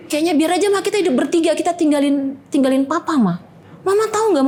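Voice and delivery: lebih tinggi, menirukan anak sulung yang mendesak; suara anak. Retold or imitated. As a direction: anak memohon agar ibu meninggalkan ayah, suara tinggi mendesak. Anak sulung membujuk ibunya. (suara anak remaja yang gemas dan memohon)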